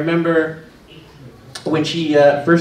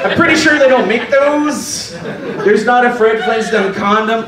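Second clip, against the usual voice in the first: amused pharmacist; 5 semitones higher than usual. Retold or imitated. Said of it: "the pharmacist was like".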